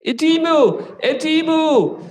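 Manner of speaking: high-pitched kobold war cry; high, shouted creature voice; shouting kobolds. Acted. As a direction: shout it high like an alarmed kobold, stretching the last syllables. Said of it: "and they shout".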